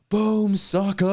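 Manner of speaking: high mock yell of "Boom, sucker!"; retold stream-opening yell; yelled catchphrase. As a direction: blast the stream open with a battle cry. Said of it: "me yelling".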